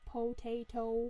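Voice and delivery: slow, drawn-out film-line imitation; Lord of the Rings quote. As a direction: stretch out each syllable of the word. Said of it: "That's a Lord of the Rings reference".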